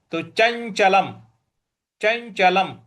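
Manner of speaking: चंचलम slowly, closing on a clear m; final m. Shown as a demonstration. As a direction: end चंचलम with lips shut on m. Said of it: "उसका उच्चारण हमें म". (चंचलम के अंत में साफ़ म्)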